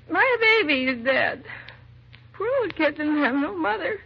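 distraught plea. Acted. Grieving mother begging the detectives to go away, distraught. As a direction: beg them to leave her with her loss.

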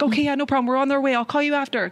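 re-enacted dismissive reassurance; quick brush-off. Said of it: "like, quick convos".

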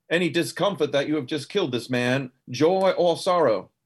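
lightly put-on southern accent. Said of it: "I'm going back to my southern voice".

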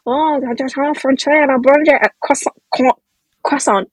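imitating French people chatting; hammed-up French gibberish landing on the pastry; mock French accent. Arguing about how French people order, mock French accent. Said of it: "like, French people just going".

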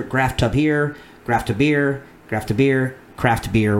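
graph tub here sped up and run together into graph to beer. Shown as a demonstration. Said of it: "so I would go faster".

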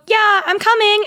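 high-pitched acted fob-off; feigned willingness. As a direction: call it out high as a breezy brush-off. Acted brush-off before running away.

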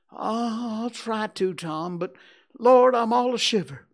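fear bursting out; shivering fear. Acted. Huck admitting he's shivering, high frightened cry.

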